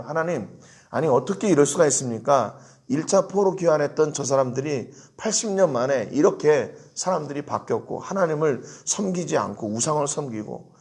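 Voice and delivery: lightly voiced protest against the people; indignant prayer. Imagined prayer accusing the returned exiles, mild indignation. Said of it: "이렇게 기도해야 될 것 같아요".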